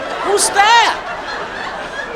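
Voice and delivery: unvoiced curious whisper; whispered whale. Killer whale spotting the skier, whispered.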